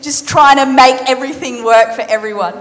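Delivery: mock frustration. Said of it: "she's like".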